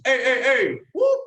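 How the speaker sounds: chanted heys ending in a whoop; loud crowd chant; junior wildcat yell. Shown as a demonstration. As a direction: call it out, then whoop. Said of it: "just like this".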